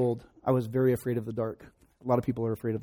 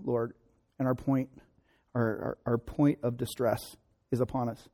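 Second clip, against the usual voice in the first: earnest pastoral prayer voice. Acted. Pastor prays over his congregation, earnest and gentle. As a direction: pray over the church.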